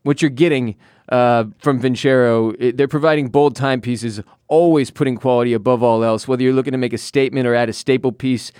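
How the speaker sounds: upbeat sponsor read; host reading a sponsor spot, lively ad delivery. Acted. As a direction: sell the watch, confident and smooth.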